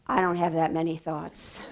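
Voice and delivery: tag. Retold or imitated. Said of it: "the faces in the room".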